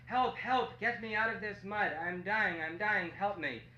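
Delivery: crying for help. Acted. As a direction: call out for help as a trapped monkey. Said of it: "so he cried to all the animals".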